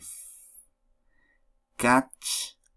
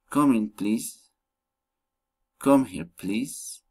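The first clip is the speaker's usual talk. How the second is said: "Come here, please" with "please" lifted; rising request intonation; slower than usual. Shown as a demonstration. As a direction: soften "Come in, please" into a request with a final rise. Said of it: "rising intonation".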